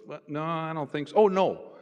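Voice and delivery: lightly voiced friend, sudden recall; Charlie remembering. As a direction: catch yourself mid-thought. Charlie answers, then remembers.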